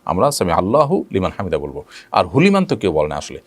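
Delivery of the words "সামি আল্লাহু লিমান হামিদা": আল্লাহু kept whole, then লিমান; corrected pronunciation. Shown as a demonstration. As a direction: keep the hu on আল্লাহু, not on লিমান. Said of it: "বলবো যে হুলিমান না".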